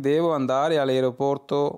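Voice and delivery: very slow, each syllable clear; slow model sentence. Shown as a demonstration. Teacher reading the Italian phrase for students, very slow. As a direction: read it out slowly for learners to repeat. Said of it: "किसी taxi वाले से आप इस तरह कह सकते हैं".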